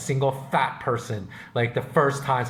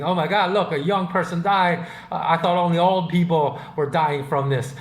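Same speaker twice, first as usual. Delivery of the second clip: higher-pitched imitation of shocked onlookers; mock shock; 4 semitones higher than usual. Retelling how people reacted to a young person's death, mock shock. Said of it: "people were shocked".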